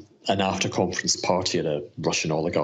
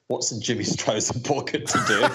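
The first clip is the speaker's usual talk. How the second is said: laughing; 4 semitones higher than usual. Real, not acted. Asking the joke question.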